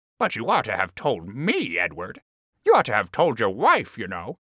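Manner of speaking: lightly reproachful, mildly chiding tone. Reading a wife's line to her husband with a touch of reproach. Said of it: "with a touch of reproach".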